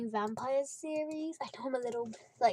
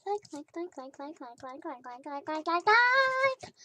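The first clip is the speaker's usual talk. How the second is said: mock rambling; 4 semitones higher, 4 dB louder, slower than usual. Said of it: "I'm saying, like, way too much".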